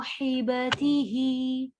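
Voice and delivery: साहिबतिही with the sa drawn long; long saad. Shown as a demonstration. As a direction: stretch the sa of साहिबतिही. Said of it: "सौद को हम खींच रहे हैं".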